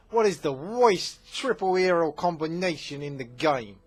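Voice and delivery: loud, high, hammed-up New Jersey accent; exaggerated New Jersey accent, belted out. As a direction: say "worst" as "woist", mock New Jersey style. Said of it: "I'm from New Jersey".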